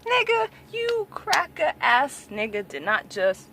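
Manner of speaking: high, slow, put-on sassy voice; mock sassy call-out. Imitating himself calling out people, high and sassy. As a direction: ham up a neck-rolling comeback, high and slow. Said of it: "be like".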